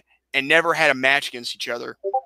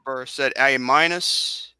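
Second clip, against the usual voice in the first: slow, slightly Australian-sounding vowels; accidental Australian accent; 2 semitones lower, much slower than usual. Real, not acted. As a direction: let an Australian twang slip in. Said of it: "I sounded Australian there".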